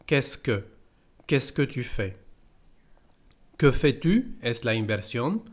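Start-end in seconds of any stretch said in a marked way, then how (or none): 0.1-0.7 "Qu'est-ce que" in two syllables, "kess-kuh"; spoken contraction. Shown as a demonstration. Teacher isolating the everyday spoken "Qu'est-ce que", contracted to "kess-kuh". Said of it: "solamente decimos". 1.3-2.1 "Qu'est-ce que tu fais?" starting with a contracted "kess-kuh"; spoken contraction. Shown as a demonstration. Teacher repeating the spoken form of "Qu'est-ce que tu fais?", contracted to "kess-kuh". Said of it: "solamente decimos".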